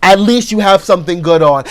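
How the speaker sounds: ordinary talk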